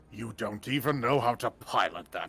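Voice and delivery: slow, mocking villain taunt; sneering villain. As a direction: taunt him like a smug villain. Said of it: "He goes".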